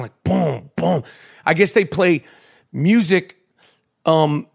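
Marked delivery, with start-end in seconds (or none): 0.2-1.0 muffled bass boom. Retold or imitated. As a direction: mimic music thumping through the floor. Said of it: "you could hear the shit rocking".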